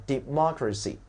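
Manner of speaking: democracy with its stressed syllable made clear; stress demonstration. Shown as a demonstration. Teacher repeating the word for students, careful stressed "democracy". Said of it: "注意重音位置".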